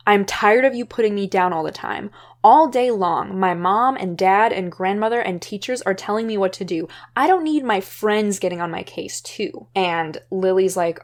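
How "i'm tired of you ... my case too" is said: louder, fed-up outburst. Retold or imitated. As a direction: let it all spill out. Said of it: "finally just lets it all out".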